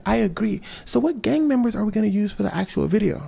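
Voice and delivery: high Michael voice. Acted.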